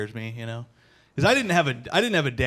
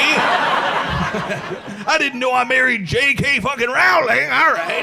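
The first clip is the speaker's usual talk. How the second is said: higher, louder, sarcastic fake offense; mock indignant; 10 semitones higher, 4 dB louder, much slower than usual. Husband to his wife over the beer, high sarcastic fake outrage. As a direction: play the wounded victim, sarcastically. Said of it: "I could be like".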